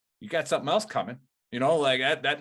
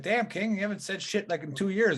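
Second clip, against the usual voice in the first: much higher, amazed exclamation; reacting to a sergeant who hasn't spoken in years, much higher in surprise; stunned surprise; 7 semitones higher than usual. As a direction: gasp it out like you can't believe he spoke.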